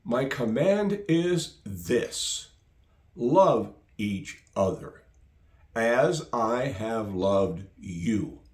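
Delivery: slow, weighty reading of the command; slow scripture reading. Acted. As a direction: read it slowly and gravely. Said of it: "start with verse twelve".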